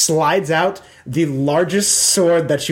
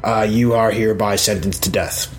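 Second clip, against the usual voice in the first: pronouncing king. Acted. King sentencing Tarshan at the execution, mildly proclamatory. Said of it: "So King Turtlebottom gets up".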